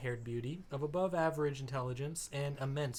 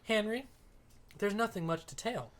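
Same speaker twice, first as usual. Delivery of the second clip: put-on higher-pitched girl cousin, unhurried; Virginia; 6 semitones higher than usual. Cousin answering the table about her visit, in a higher role voice. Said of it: "I can do Virginia".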